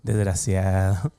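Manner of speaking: slow, contemptuous "Desgraciado"; scornful insult. Shown as a demonstration. Pastor tells the congregation how to answer the enemy, with scorn. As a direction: spit out "Desgraciado" slowly with scorn. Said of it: "así con esa cara, dile".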